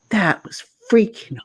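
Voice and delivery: low, slow imitation of a deadpan athlete; stone-faced deadpan. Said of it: "he said it with the Eli face, like, like the stone face".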